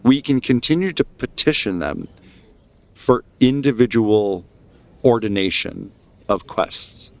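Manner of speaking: deliberate, emphatic orator with measured pauses; rally the crowd against the church; speech-making, key words drawn out; impassioned dissenter. Acted. GM voices agitator in the crowd.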